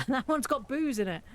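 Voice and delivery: giggling through the words; laughing. Real, not acted. Gamer laughing at a boozy recipe, giggling. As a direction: laugh it out, amused.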